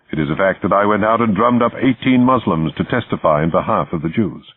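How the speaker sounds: lightly voiced proud man defending his record; indignant self-defence. Man answering his accusers for his actions, indignant. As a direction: build the case point by point, mildly heated.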